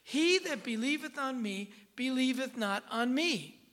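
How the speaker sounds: quoted cry, urgent and emphatic. Retold or imitated. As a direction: proclaim the verse as an urgent message. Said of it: "It's urgent".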